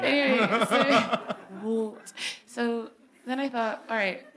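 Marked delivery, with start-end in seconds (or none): 1.6-2.1 channelling a Scottish great-grandma; imitated Scottish "what", amused; Scottish accent. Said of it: "I was channeling my great-grandma".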